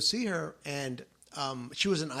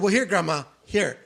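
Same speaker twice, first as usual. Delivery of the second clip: teasing through laughter; 2 semitones higher, 8 dB louder than usual. Retold or imitated. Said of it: "And I said".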